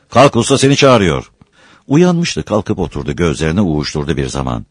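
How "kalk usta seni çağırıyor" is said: high, loud summons; calling to wake. Acted. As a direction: rouse the sleeper firmly. Waking a sleeping man. (seslenip uyandırarak)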